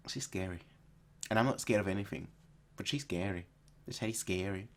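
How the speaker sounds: very soft, playful fear; hushed mock dread. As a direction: confide it as if scared of her. Mock dread about Rebecca.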